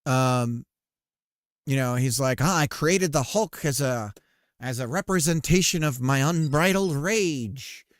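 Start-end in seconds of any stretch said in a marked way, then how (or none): 2.4-7.9 lightly voiced Stan Lee, slow and louder on the last words; a hint of a grand old comic-book showman boasting; Stan Lee impression. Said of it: "that's my Stan Lee impersonation there".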